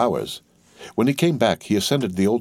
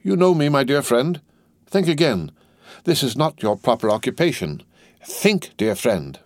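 earnest pleading; 6 semitones higher than usual. A narrator's reading. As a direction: start high, then settle down. Lorry pleads with the dazed doctor.

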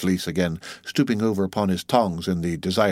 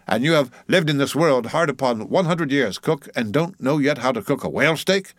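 lightly voiced mate, pitched up; scolding mate; 6 semitones higher than usual. Mate faulting old cook over whale steak, scolding. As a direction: scold with mock amazement.

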